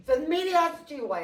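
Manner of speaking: chuckling through it; laughing. Real, not acted. Jokes, then laughs.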